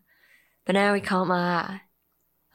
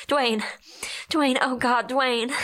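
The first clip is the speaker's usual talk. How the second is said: calling out; 5 semitones higher, slower than usual. Acted. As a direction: call across the room to him. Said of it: "I called out".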